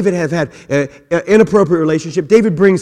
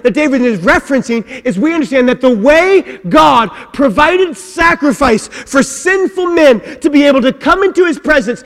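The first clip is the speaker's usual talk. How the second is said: preaching at full force; 9 semitones higher, 4 dB louder than usual. Acted. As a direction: build the congregation up, hammering each phrase.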